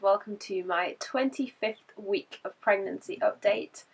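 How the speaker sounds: hoarse from a cold; croaky voice. Real, not acted. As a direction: talk through a sick, croaky throat. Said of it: "excuse the croaky voice".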